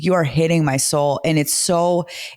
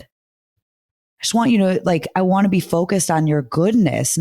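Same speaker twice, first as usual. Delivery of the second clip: gentle parenting; 4 semitones higher than usual. Pretend. Speaks to imagined future child.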